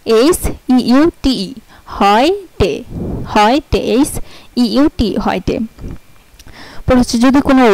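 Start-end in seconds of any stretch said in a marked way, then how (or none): 1.9-5.6 "হয়টে" with eu as oy; German word heute. Shown as a demonstration. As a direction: read the example twice. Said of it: "যেমন এই যে হয়টে".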